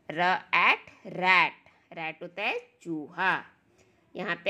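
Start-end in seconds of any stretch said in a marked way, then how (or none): 0.1-1.5 drawn-out blending into मैन; slow phonics blend. Shown as a demonstration. Teacher blending sounds slowly for children. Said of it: "र से".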